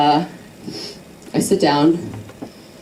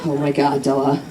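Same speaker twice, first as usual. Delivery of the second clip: panicked inner voice; faster than usual. Retold or imitated. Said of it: "I think to myself".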